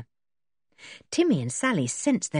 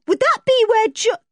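eager blurt; 8 dB louder than usual. A narrator's reading. Dick blurting before nudge.

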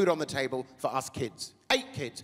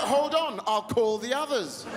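mock indignation; 6 semitones higher, slower than usual. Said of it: "I was like".

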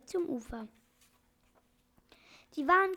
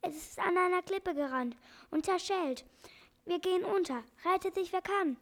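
higher, urgent parrot voice calling out; parrot still shouting; 5 semitones higher than usual. Acted. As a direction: warn everyone the ship is sinking. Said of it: "schrie der Papagei". (Papagei ruft hoch und dringlich)

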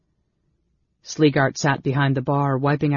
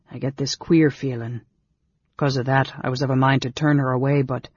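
lightly voiced rustic innkeeper, uneasy. Innkeeper recalling his doubts about her, uneasy. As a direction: confide it as a plain country innkeeper. Innkeeper's figure in read story.

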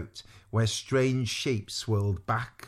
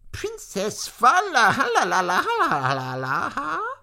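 grand announcement; 11 semitones higher, 6 dB louder than usual. A narrator's reading. Maudmont announcing the princess, loud and grandiose. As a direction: roll out the endless name with a flourish.

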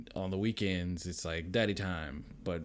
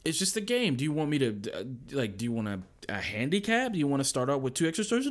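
higher, louder soothing dad voice; patient dad; 6 semitones higher, 3 dB louder than usual. Retold or imitated. Dad to crying daughter, mock patient. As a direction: coax the kid gently but firmly. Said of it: "I'm like".

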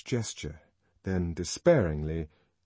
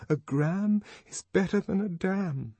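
higher, rote, automatic recital; mechanically; 11 semitones higher than usual. A narrator's reading. Lenina hiding behind her hands, high mechanical recital. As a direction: recite it like a slogan, no feeling. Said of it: "said Lenina mechanically".

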